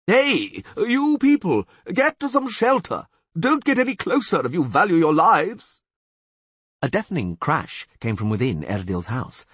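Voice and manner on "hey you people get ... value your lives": high, loud urgent warning; warning shout. Acted. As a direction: shout the crowd back. Warning crowd to take shelter.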